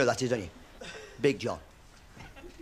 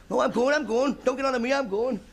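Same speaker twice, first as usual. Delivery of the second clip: put-on higher cranky old sidekick; Walter Brennan; 6 semitones higher than usual. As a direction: grumble it like a grumpy old cowboy. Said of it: "John Wayne talking to Walt Brennan".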